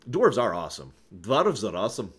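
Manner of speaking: a hint of gruff dwarven accent on Dwarves are awesome; mild dwarven accent cheer. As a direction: lightly play a fantasy dwarf. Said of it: "proper accent of anything other than the dwarf".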